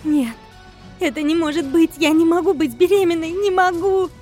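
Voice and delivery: high, loud panicked scream. Acted. Wife screaming she cannot be pregnant, high and loud. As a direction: cry out in terror. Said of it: "закричала Диана".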